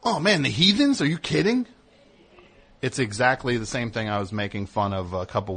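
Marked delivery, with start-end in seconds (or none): 0.0-1.7 much higher, gushing mock testimonial; mock rock-musician testimonial. A rock musician gushing about the band in a testimonial, higher. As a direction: gush like a rock star in a documentary. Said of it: "He's like".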